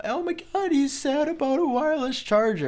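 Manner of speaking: high, mocking voice of a viewer comment; mocking commenter. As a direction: sneer it like a snarky YouTube commenter. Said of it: "And I can just see the com".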